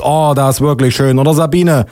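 acted admiring policeman; enthusing policeman. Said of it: "ruft der Polizist".

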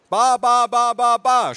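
put-on high, loud baby-talk chant; shouting aunt. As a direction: shout baby syllables on one high note. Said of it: "schrie meine Tante".

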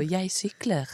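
"sykler" said with a clear e-ending, sykler; refined Bergen "sykler" with the e-ending; fine Bergen sykler. Shown as a demonstration. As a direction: demo how fine Bergen folk say "jeg sykler", ending on -er not -ar. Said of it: "pene bergensere, sier jo".

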